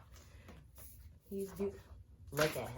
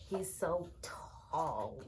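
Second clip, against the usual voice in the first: tearful; much slower than usual. Real, not acted. Overwhelmed fan near tears.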